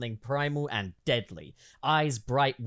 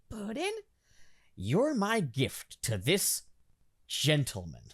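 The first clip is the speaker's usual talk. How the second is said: Harley Quinn voice; 8 semitones higher than usual. Acted.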